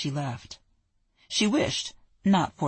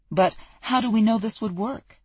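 higher, louder mocking quote; mocking objection; 6 semitones higher, 4 dB louder than usual. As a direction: parody the doubters.

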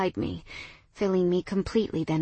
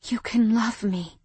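whispering. Acted. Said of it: "I whispered".

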